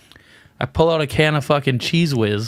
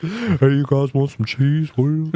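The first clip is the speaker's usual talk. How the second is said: slow creepy offer; slower than usual. Pretend. Voicing the Cheese Whiz woman.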